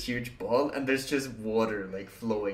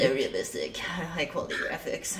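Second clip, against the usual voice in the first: sarcastic awe; 6 semitones higher, 4 dB quieter than usual. Retold or imitated. Sarcastic echo with laugh.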